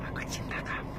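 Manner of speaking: soft whisper "Aku cinta kamu"; whispered love. Shown as a demonstration. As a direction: breathe it into their ear.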